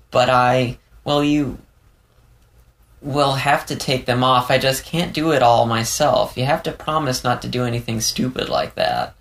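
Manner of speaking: falter, then press for a promise; Leo, hesitant then insistent. Acted. Leo sets conditions, hesitant.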